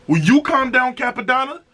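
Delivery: playful high-pitched plea to the rapper; pleading mock plea. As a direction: beg him to chill, voice jumping up high. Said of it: "I said".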